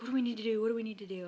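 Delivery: put-on frantic, loud, rushed, scrambling repeated words. Retelling his reaction to the news: imitating Jason, frantic. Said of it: "he gets all frantic".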